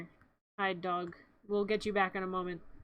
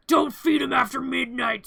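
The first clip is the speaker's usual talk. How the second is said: louder, forced warning yell; mock stern shout; 6 dB louder than usual. Dad warns son about the pet, mock shouting. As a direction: hammer out a pretend dire warning.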